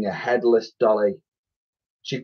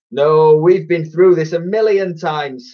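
higher exasperated snap; irritated, raised-pitch outburst; snapping; 6 semitones higher, 4 dB louder than usual. A narrator's reading. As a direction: snap at a dim twin. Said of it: "snapped the other".

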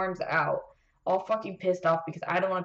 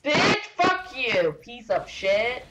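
angry cursing; 5 semitones higher, 4 dB louder, much slower than usual. Real, not acted. Gamer cursing at enemies.

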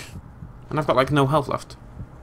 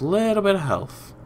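"bit of health" lifted high then falling; playful repeat; 7 semitones higher, 3 dB quieter than usual. Real, not acted.

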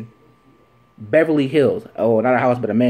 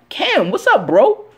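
calling out; 13 semitones higher, 5 dB louder, slower than usual. Real, not acted. Calling out Cam Newton.

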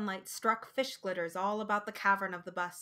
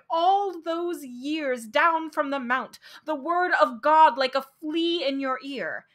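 crying out; 4 dB louder than usual. Acted. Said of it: "I cried".

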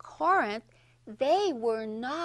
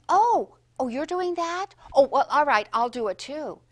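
mock go-along; 6 dB louder than usual. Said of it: "Don't just, you know".

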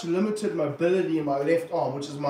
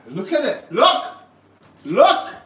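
sharp, louder, higher-pitched bursts; excited exclamation; 6 semitones higher, 9 dB louder, slower than usual. Real, not acted. Snake handler urging viewers to look at the snake, excited. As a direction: urge them to look, voice jumping up.

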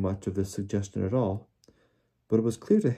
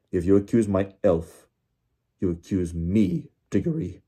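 louder, slowed angry shout; 6 dB louder than usual. Acted. Crouch defending his elf against Diggory, angry shout. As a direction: lay down the threat hard. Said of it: "shouted Mister Crouch".

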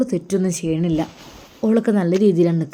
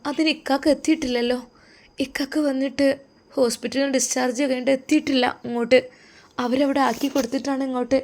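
put-on higher, softer voice of a hurt young wife; soft, high, quietly hurt; hurt and timid; 4 semitones higher, 3 dB quieter than usual. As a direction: speak up small and wounded, hurt by the angry call. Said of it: "അവളാകെ വേദനിച്ചു പോയി".

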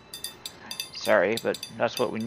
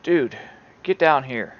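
shouting orders over battle; 6 dB louder than usual. Real, not acted. Commanding colonists during wolf attack.

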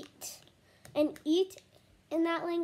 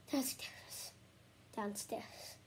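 whisper; 4 semitones lower, 12 dB quieter, much slower than usual. Real, not acted. Kid whispering from downstairs.

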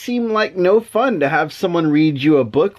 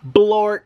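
silly nonsense word; 3 semitones higher than usual. Shown as a demonstration. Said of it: "the words say".

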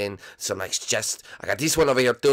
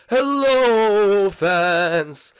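high, loud ghost voice calling hello; ghost greeting; 8 semitones higher, 6 dB louder, much slower than usual. Acted. Blimpy greets the fans on Luigi's request, high and loud. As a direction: call out cheerfully to the fans. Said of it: "say hello to the fans out there".

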